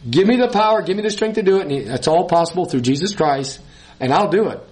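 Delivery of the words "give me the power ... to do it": earnest lifted cry of yielding; fervent prayer. Acted. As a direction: plead for strength, rising up. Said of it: "we need to humble ourselves and say".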